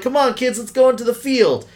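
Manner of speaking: high-pitched mock rallying of children; parental rallying. Imitating religious parents taking kids to the field, rallying.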